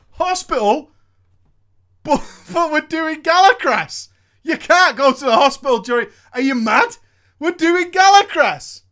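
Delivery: loud, high mock outrage at the news; outraged raid leader. Guild leader yelling at the raid in loud outrage. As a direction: bellow like a furious guild leader hearing his tank is leaving.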